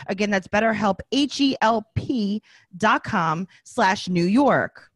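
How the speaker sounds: upbeat sponsor read, lists rattled off. Acted. Host reads sponsor spot to listeners, upbeat ad read. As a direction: sell the service like a host ad spot.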